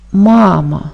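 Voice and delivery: "Мама" with a lengthened, stressed first "Ма"; stress on first syllable. Shown as a demonstration. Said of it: "Перший склад в цьому слові наголошений". («Мама» з наголосом на першому складі)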